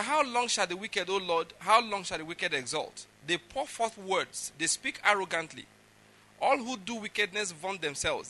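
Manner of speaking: measured, declaimed psalm; scripture reading. Acted. Preacher reading David's psalm to the congregation, declaimed. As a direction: read it out as a solemn plea.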